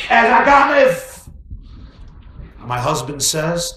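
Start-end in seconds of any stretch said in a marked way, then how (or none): 0.1-1.3 indignant wife. Acted. Wife scolding naive husband.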